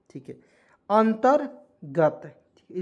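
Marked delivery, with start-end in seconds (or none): 0.9-2.2 slow. Shown as a demonstration. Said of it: "इस तरह से देखेंगे बिल्कुल ध्यान से".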